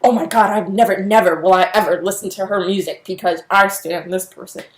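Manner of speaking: gasp, then mock-appalled disbelief; mock horrified seriousness. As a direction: imitate an overserious fan aghast. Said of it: "take it seriously".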